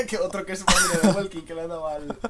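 high loud comic voice; silly voice. Acted. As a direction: keep the squeaky joke voice. Joke voice continues.

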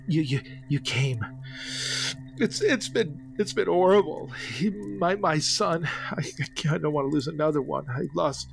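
a hint of tearful, stammering grief; weeping old man. Grieving father pleading with visitors, tearful and stammering. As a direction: stammer through tears, barely holding on. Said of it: "weeping and hushed tones".

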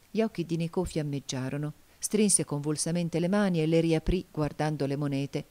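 usual speaking voice

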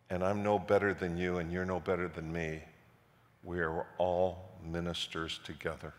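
quietly sincere address to the congregation; sincere speech. Retold or imitated. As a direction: speak it gently, as a humble confession. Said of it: "I said to the whole audience".

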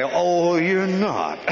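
mock an army captain's incredulous retort; old captain. Captain to a soldier refusing drill, high-pitched challenge. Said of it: "And that guy, he'd say".

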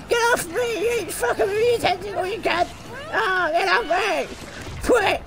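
high, panicked yelling at the monster. Real, not acted. Player grabbed by a tentacle monster, panicked high yelling.

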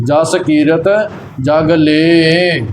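"ਜਸ ਕੀਰਤ", a pause, "ਜਗ ਲੇ" drawn out slowly; careful pronunciation. Shown as a demonstration. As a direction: stretch the long e ending "ਜਗ ਲੇ". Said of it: "ਇਸੇ ਪ੍ਰਕਾਰ ਹੀ ਇਸ ਦਾ ਉਚਾਰਨ". ("ਜਗ ਲੇ" ਲਮਕਾ ਕੇ ਉਚਾਰਨ)

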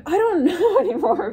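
laughing through the words, voice jumping up high; breaking into real laughter mid-sentence. Real, not acted. Tarot reader laughing at a silly message for viewers.

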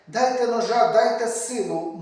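high, loud cry for revenge; vengeful outburst. Acted. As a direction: demand a knife and strength at full voice. (гнівний вигук помсти)

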